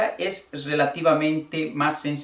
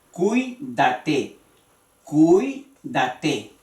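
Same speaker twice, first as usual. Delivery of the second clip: cuídate sounded out as CUÍ-da-te; careful teacher's repeat of cuídate; stress on second vowel; much slower than usual. Shown as a demonstration. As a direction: lean on the í of cuídate, syllables set apart. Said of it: "en la segunda".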